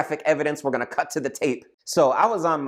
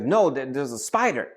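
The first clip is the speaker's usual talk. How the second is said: high, drawn-out alarm on huge; wife pointing out a huge spider in alarm; 4 semitones higher than usual. Retold or imitated. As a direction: stretch out huge in fright. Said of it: "It's like".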